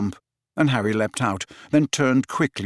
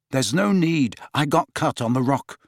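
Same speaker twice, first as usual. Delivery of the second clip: firm; 3 semitones higher than usual. Acted. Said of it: "said Harry firmly".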